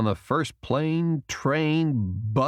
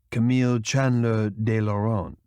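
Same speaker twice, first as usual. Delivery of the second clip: lightly voiced man, firm; Julian's correction. A narrator's reading. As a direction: correct her name firmly. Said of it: "Julian corrected her".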